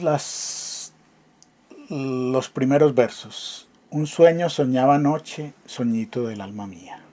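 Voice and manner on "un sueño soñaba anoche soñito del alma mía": lightly poetic rereading of the opening lines; recited verse. Acted. Teacher quoting the first verses, lightly recited. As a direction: read it like a line of verse again.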